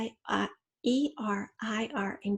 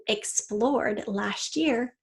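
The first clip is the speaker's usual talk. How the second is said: slow stress; much slower than usual. Shown as a demonstration. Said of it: "in past tense".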